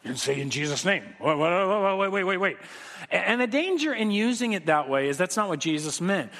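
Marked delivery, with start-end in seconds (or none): 0.0-2.6 flustered. Retold or imitated. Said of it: "And they're like".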